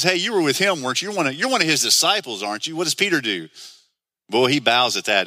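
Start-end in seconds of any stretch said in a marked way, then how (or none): 0.0-2.8 higher, quick needling questions; lightly acted taunt, pressing for an admission; mocking accusation. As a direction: pester him with a pointed accusation. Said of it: "Peter was kind of mocked".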